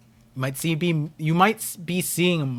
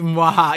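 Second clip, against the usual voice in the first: villain laugh; 6 dB louder than usual. Pretend. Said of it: "that is the mwahaha".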